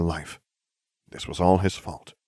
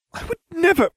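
indignant; 4 dB louder than usual. A narrator's reading. Indignant denial of murder.

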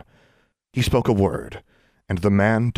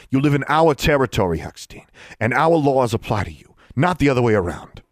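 higher and louder, bullying official; Mister Johnson's voice; 6 semitones higher, 4 dB louder than usual. Acted. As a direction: lay down the law.

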